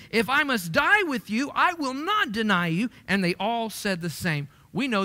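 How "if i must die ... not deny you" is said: emphatic vow. Retold or imitated. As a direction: proclaim Peter's vow with force. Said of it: "But he said emphatically".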